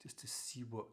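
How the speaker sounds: calm, unhurried meditation teacher; guided meditation. Real, not acted. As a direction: ease listeners gently into awareness. Eases listeners into meditation.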